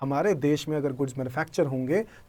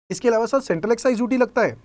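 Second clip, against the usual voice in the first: lightly voiced student, higher and faster; student's question; 6 semitones higher, 3 dB louder, faster than usual. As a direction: ask the teacher quickly, pitched up.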